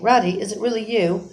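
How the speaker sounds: a lightly voiced, feeble little mole; small, weak voice from a hole. A narrator's reading. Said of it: "came a feeble voice saying".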